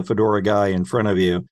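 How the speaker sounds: ordinary talk, nothing marked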